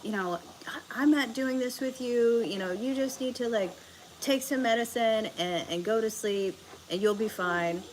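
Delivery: high-pitched mock scolding, easing off at the end; imitated yelling mom. Mom dismissing her sick daughter, mock yelling. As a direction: imitate mom telling you off, without real volume. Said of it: "she starts yelling at me".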